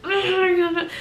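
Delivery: high, strained wordless grumble; exaggerated wordless exasperation; mock frustrated noise. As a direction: imitate anger flooding back without words. Acting out anger returning weeks later.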